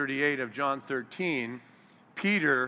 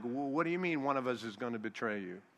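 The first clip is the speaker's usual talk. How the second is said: quick, softer stammered question; mock freak-out; 7 dB quieter, faster than usual. Disciples freaking out at Jesus's warning, mock alarm. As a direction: imitate flustered disbelief, rushed and hushed. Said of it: "they were freaking out, like".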